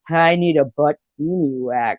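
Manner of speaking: slow, lightly put-on character voice; Lemon Lime. Imitating a friend for the room, slow mock voice. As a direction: draw it out in a mildly mocking impression. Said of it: "Lemon Lime has no language".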